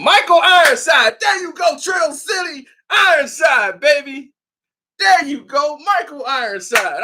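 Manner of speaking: real excitement over a favorite actor; excited shout. Real, not acted. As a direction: cheer the name out.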